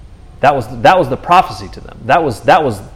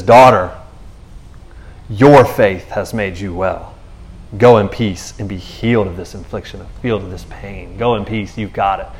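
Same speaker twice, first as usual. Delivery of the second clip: gentle Jesus; 4 semitones lower than usual. Retold or imitated. Jesus speaks kindly to woman.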